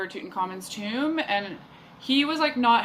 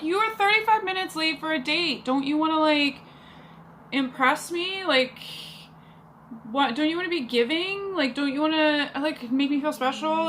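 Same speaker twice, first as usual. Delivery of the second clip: higher-pitched retold indignation; indignant reproach; 6 semitones higher than usual. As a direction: scold a late date, pitch raised in disbelief. Retold reproach to late date.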